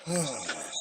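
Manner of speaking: long, soft, falling sigh; heavy sigh. Real, not acted. Worn-out customer after venting about the store, sighing. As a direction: let the anger out in a sigh.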